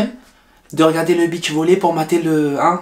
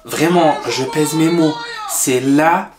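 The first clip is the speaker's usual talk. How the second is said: sad; 3 semitones lower, slower than usual. Acted. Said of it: "je suis en train de craquer".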